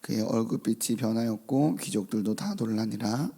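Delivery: measured, formal Bible reading; scripture reading. Acted. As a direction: read the passage with solemn weight. Reads scripture aloud.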